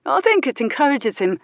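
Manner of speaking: a cheeky London workman offering advice; Cockney workman. Acted. Workman suggesting Jules stop screaming, cheeky Cockney voice. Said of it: "suggested a man wearing a brown cap".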